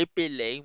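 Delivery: "Épeler" said ay-puh-lay; French pronunciation. Shown as a demonstration. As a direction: model French "Épeler" after a short laugh. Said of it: "E L E R na verbs".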